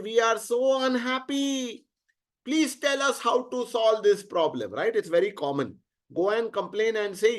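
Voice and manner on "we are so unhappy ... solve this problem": mild complaining. Acted. Devs complain to Brahma about being unhappy, mildly complaining. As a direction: lightly act out a plaintive complaint. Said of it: "complained and said".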